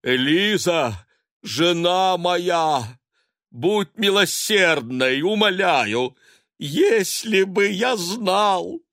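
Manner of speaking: high, loud, slow theatrical plea; husband begging wife through the door; hammed-up pleading. A narrator's reading. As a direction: beg at the door overplaying it.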